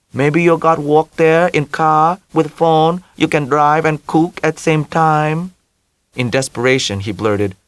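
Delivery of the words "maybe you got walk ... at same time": put-on mother in a heavy Vietnamese accent, high; Vietnamese-accented mother, higher and louder. A narrator's reading.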